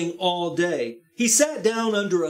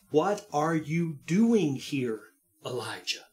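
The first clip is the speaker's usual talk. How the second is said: slow gentle question; 2 semitones lower, 3 dB quieter than usual. Acted. The voice asks again, slow.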